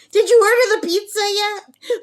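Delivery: high, loud squawking parrot yell; loud, high imitation of a shouting bird; parrot's yell. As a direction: belt it out like a parrot calling from the cage. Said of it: "Smokey yells".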